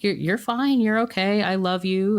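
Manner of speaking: high-pitched gentle reassurance; mother soothing. Retold or imitated. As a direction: sweetly brush the sadness aside as his mother. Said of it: "she was like".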